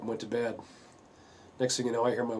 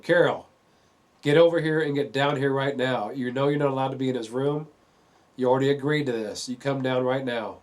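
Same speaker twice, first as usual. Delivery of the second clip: retold stern yell; 3 semitones higher, 6 dB louder than usual. Husband ordering wife down ladder.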